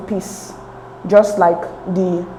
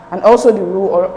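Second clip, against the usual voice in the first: ordinary delivery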